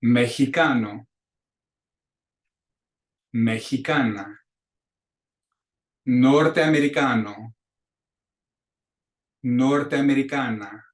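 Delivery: teacher modeling Spanish words; repeat-after-me drill. Shown as a demonstration. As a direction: say each word clearly for a class to echo. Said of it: "clases repitan".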